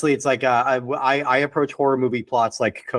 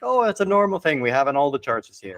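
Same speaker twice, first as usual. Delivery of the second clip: put-on light Irish accent, offhand; Irish villager accent; 3 semitones higher than usual. Host mimics a villager in a light Irish accent. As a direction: shrug it off in a mild Irish accent. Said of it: "I'm gonna stop doing that accent".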